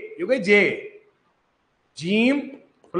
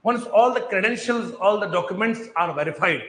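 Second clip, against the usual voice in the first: slow explaining; much slower than usual. Shown as a demonstration. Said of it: "समझो verification मान लो".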